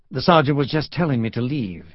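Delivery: smoothly covering for a friend; polite, smooth Southern gentleman; smooth interjection. Acted. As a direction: cut in with easy courtesy. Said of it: "interjected Pendergast smoothly".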